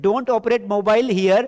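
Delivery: very slow, word by word, for the class; slow model sentence. Shown as a demonstration. Teacher dictating an English sentence to students, very slowly. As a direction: spell each English word out slowly for learners. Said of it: "ऐसा भी बोल सकते हैं".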